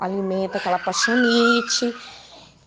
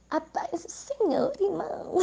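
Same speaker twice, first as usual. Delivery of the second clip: higher, softer, head tossed back, sugary; coy flirty greeting; 6 semitones higher, 7 dB quieter than usual. Pretend. Needy woman greeting a church brother, coy and higher. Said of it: "joga a cabecinha pra trás e fala assim".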